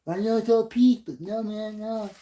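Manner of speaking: high, put-on pleading voice; hammed-up high-voiced objection; mock Californian objector. Same acted objector continues.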